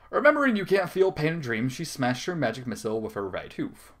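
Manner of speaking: ordinary talk, nothing marked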